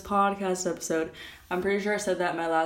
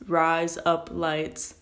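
"Rise up lights" said slowly in a light mock British accent, each word drawn out; slow British-sounding demo; much slower than usual. Shown as a demonstration. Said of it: "you can't sound American saying that".

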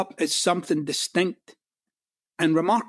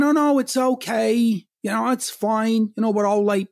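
fake politeness; 4 semitones higher than usual. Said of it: "but you're pissed off".

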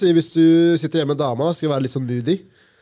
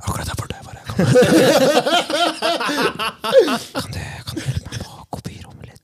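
hushed office request; discreet, voiceless murmur; whispering; 5 semitones higher than usual. Pretend. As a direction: whisper it to a colleague. Acting out whispering to a colleague.

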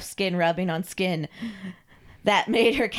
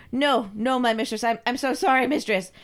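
pitched-up, hasty apology; cowed submissive servant; 5 semitones higher, 3 dB louder than usual. Acted. Carl apologises to his mistress, grovelling. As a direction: apologise frantically to your mistress.

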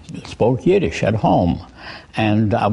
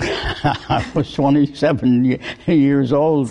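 laughing through the words, slowed; 3 semitones higher, slower than usual. Real, not acted. Laughs recalling his youth.

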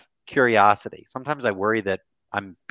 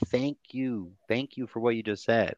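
gentle thanks; 6 dB quieter than usual. Shown as a demonstration. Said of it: "If you ever don't know what to say".

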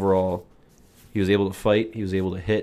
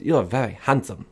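lightly imitated Asian accent; a hint of a put-on Asian accent; 3 semitones higher than usual. Party guest complimenting the speaker, light mock Asian accent. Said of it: "doing Asian accents".

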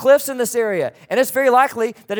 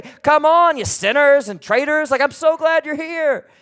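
loud, high, thrilled greeting; excited welcome; 8 semitones higher, 6 dB louder than usual. Acted. Jesus welcomes sinners to his table, excited welcome. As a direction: call them in with big, high-pitched delight. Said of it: "he was excited that they were there".

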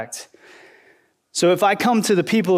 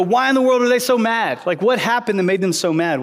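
puzzled listener; 5 semitones higher than usual. Retold or imitated. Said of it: "So you go".

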